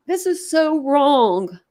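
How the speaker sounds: slow, sorrowful protest; upset lament. Real, not acted. Streamer grieving over delayed justice, slow and upset. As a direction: draw the words out in sorrow. Crying over the case, repeats.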